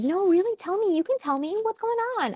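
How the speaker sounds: a high, wheedling tell me; mock pushy concern. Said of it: "I want him to test me".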